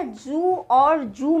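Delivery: "जू और जू" slowly, one zoo, one joo; j and z contrast. Shown as a demonstration. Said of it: "आप सुन पा रहे हैं ना". ("जू और जू" में ज़ और ज का अंतर)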